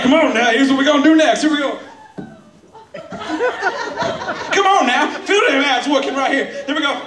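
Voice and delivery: high, sing-song coaxing, lightly effeminate; campy workout host. Retold or imitated. Comic calls his class to work their abs, high and lilting. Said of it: "He's like".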